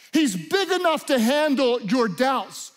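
emphatic preaching. Acted. Preacher building to a climax.

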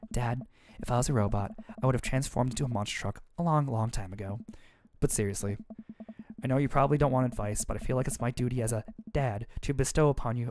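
hint of a tender dad; lightly voiced dad. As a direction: comfort your daughter kindly.

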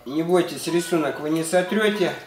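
usual speaking voice

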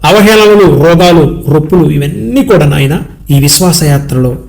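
earnest spoken prayer, addressed to God in rolling phrases; congregational prayer. Real, not acted. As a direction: intercede for the congregation, list after list.

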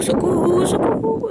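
rising high squeal for help; mock cry for help. Real, not acted. Vlogger wading into the freezing pool, squealing high for help. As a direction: squeal as the icy water climbs.

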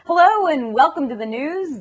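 "news" said as if it were spelled "gnews", with the G kept silent; a newsreader's "news", with the silent G only implied; bright anchor greeting on "news"; silent G joke. Shown as a demonstration. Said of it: "The G is silent".

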